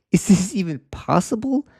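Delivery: high, breathless whispered disbelief; stunned whisper. Retold or imitated. You overwhelmed by life's troubles, stunned whisper.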